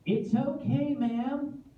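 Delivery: mock soothing. Soothing hysterical woman.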